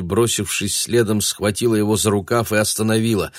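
usual speaking voice

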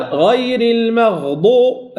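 المغضوب slow, the غ drawn out; held غين. Shown as a demonstration. Teacher modelling the long غ in المغضوب. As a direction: stretch the غ in المغضوب. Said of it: "تحتاج إلى زمن أكثر".

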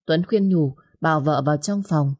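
usual speaking voice

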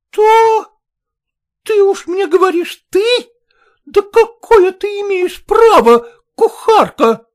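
very high, very loud scream; outraged scream. A narrator's reading. Maternitskaya screams at the mother, outraged. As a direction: shriek at the insult.

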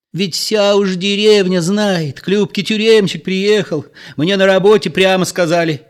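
high, loud shrill voice of a hysterical woman; shrill questioning. A narrator's reading. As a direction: screech the question, nerves on edge. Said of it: "визгливо спрашивала".

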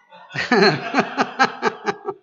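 loud burst of real laughter; hearty laugh. Real, not acted. Preacher laughs at his own expression, loud laugh. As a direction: laugh at your own joke.

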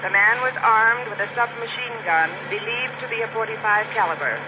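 tinny dispatcher voice over radio; police radio. Acted.

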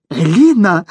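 high-pitched cry of outrage; squealed outburst. A narrator's reading. Boss squeals at his defiant employee, outraged. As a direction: squeal the name in protest. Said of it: "взвизгнул полотенец".

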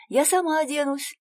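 высоко и громче, по-детски; детский восторженный возглас; восклицая. A narrator's reading. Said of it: "восклицает Пой-Пой". (восклицает радостно)

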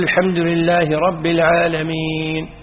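slow, drawn-out recitation; slow imam recitation. Shown as a demonstration. Teacher voicing an imam reciting slowly, drawn out. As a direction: stretch each word out. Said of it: "يقول".

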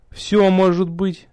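high, drawn-out, distracted reply; vague, lingering musing; absent-minded. A narrator's reading. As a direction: answer slowly with your mind elsewhere. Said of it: "рассеянно откликнулся я".

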